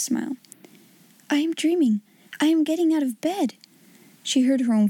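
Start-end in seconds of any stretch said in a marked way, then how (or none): 1.3-3.5 put-on wondering girl. Sarah's voice, wondering.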